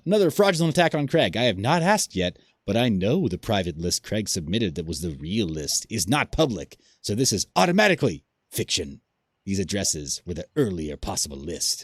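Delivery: lightly voiced theatrical villain; Calvin Ayre villain voice. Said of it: "that a good villain voice? Did I do a good Calvin Ayre?".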